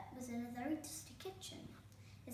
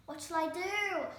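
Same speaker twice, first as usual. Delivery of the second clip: higher, louder flustered cry; 8 semitones higher, 7 dB louder than usual. A narrator's reading. Herb cornered by stepmother asks in a fluster. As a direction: panic as the enemies arrive. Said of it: "flustered Herb".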